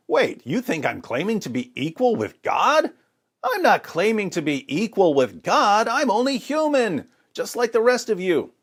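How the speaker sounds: a lightly voiced Jesus correcting them; imagined Jesus. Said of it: "he's going to correct their misunderstanding by saying".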